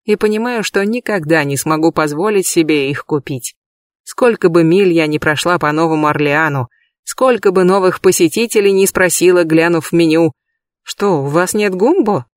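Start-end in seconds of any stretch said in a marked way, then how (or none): none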